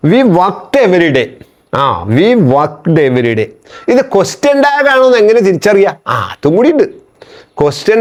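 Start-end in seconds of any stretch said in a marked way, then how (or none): 0.1-1.3 slow dictation. Shown as a demonstration. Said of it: "അടുത്തത്". 2.0-3.5 slow dictation. Shown as a demonstration. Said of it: "അടുത്തത്".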